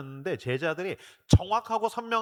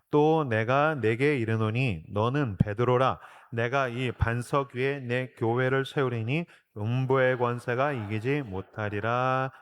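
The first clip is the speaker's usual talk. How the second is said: slow, lower, measured recitation; scripture reading; 5 semitones lower, slower than usual. Real, not acted. Pastor leading the congregation's reading, slow recitation. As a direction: read the verse solemnly for all to follow.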